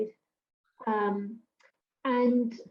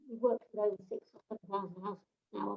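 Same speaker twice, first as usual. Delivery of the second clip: muffled, rushed and garbled; 2 semitones lower, 7 dB quieter, faster than usual. Real, not acted. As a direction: mumble it through a covered mic. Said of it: "a bit muffled and garbled".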